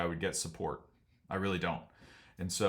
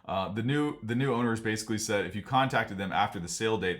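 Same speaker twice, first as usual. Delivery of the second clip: ordinary talk, nothing marked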